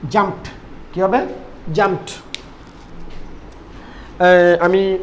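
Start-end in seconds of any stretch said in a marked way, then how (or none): 0.1-0.5 "জাম্পড" closing on T, like "jumpt"; final T sound. Shown as a demonstration. Teacher repeating the rule for learners, "জাম্পড" with final T. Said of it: "ট উচ্চারণ হবে". 1.7-2.1 "জাম্পড" closing on T, like "jumpt"; final T sound. Shown as a demonstration. Teacher repeating the rule for learners, "জাম্পড" with final T. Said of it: "ট উচ্চারণ হবে".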